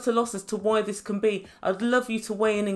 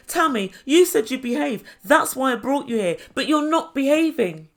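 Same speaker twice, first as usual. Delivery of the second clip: higher-pitched, exasperated telling-off; mock scolding; 4 semitones higher, 4 dB louder than usual. Imitating Asuelu scolding his sister, mock exasperation. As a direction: act out a brother's reproach.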